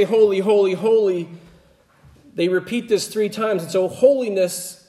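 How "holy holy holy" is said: louder, raised, ringing holy, holy, holy; proclaimed angel praise. Retold or imitated. Preacher echoing the angels' cry to the throne, proclaimed loud. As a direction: call it out like the angels' song. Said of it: "when they say".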